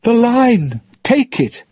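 high, loud call. Acted. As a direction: urge him to grab the rope. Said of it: "Elizabeth called".

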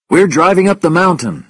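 loud, high-pitched radio reply; urgent reply. A narrator's reading. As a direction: report urgently over the radio.

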